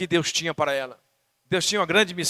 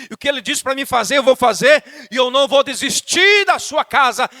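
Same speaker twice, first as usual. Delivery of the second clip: re-enacted rebuke in a raised voice; praying out loud; 4 semitones higher, 5 dB louder than usual. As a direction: act out rebuking Satan in prayer. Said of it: "começo a orar em voz alta e repreendo". (oração de repreensão em voz alta)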